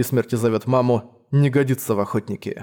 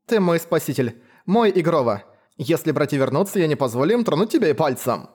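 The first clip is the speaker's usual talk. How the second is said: put-on lightly raised young woman; earnest, grateful huntress; 3 semitones higher than usual. Leila speaks to her rescuer.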